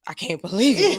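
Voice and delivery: laughing through retold disbelief; amazed, half-laughing recollection. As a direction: break into a laugh mid-phrase, incredulous. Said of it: "I was like".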